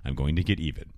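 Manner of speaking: low, soft retold threat; mock menace. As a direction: vow revenge in a quiet low voice. Donna vowing revenge, retold.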